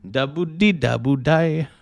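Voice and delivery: singing a song in a put-on Italian accent; Eurodance accent. Streamer sings a song to chat in a mock Italian accent. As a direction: croon the song lyrics with a foreign accent. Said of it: "in that accent".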